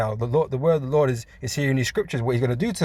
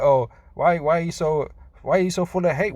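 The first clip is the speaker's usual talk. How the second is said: higher, whiny mock plea; imitating enemies pleading, mocking them; 4 semitones higher than usual. Mocking the enemies who'll cry and plead, whiny plea. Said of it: "you're gonna cry, and plead that".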